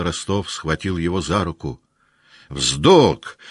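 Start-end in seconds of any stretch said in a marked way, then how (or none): 2.5-3.4 one loud, explosive shouted word. Acted. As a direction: spit it out so your neck veins swell. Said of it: "закричал он так, что жилы".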